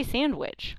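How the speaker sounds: "sandwich" as sand-wich, D audible; D sounded. Shown as a demonstration. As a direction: pronounce the D in sandwich. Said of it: "with a D".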